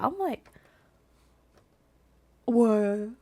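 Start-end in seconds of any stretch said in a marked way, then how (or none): 2.5-3.2 a stunned what breaking into a very high laugh; can't believe he said that; laughing disbelief. Real, not acted. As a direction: laugh it out in shock. Reacts to his insult.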